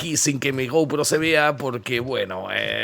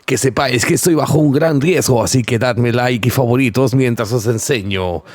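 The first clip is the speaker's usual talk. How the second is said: vlogger voice; 5 dB louder than usual. Acted. Mock vlogger intro to camera.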